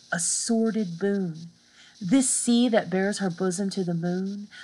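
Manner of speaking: teacher reading the poem to the class. Acted. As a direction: read to the punctuation, not the line ends. Reads the sonnet aloud.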